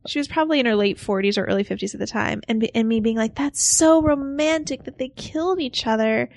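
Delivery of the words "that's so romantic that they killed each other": lightly voiced kid, higher pitch, gushing over SO; swooning child. Recalling childhood self watching a movie, swooning child. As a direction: gush like a starry-eyed kid. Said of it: "Like a kid".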